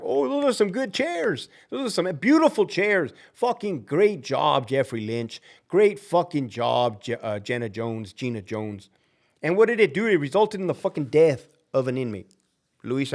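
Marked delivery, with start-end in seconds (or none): 0.0-8.9 mock praise. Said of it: "they were just like".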